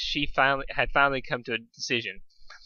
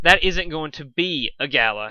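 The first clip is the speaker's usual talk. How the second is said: sigh; 3 semitones higher, 5 dB louder than usual. Acted. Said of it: "he said with a sigh".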